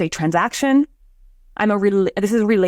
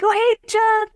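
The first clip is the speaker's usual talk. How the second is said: high bright greeting; 13 semitones higher, slower than usual. Retold or imitated. Retold greeting in story.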